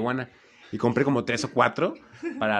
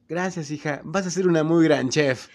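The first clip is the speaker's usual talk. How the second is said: higher, slower mock parent voice; proud parents; 7 semitones higher than usual. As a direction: play the doting parent praising a daughter, higher and slow. Padres felicitan a la hija. (imitando a un papá orgulloso, más agudo y lento)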